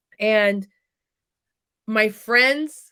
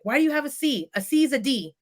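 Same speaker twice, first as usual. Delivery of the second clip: lightly voiced critical father, pitched higher; mildly critical questioning, raised pitch; critical dad; 5 semitones higher, faster than usual. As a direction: pick at each grade like a demanding dad. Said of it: "my dad was always critical on that".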